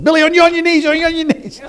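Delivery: high, frantic scream into the phone; acted-out excited screaming command. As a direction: yell it urgently at the top of your voice. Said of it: "I'm screaming at the phone".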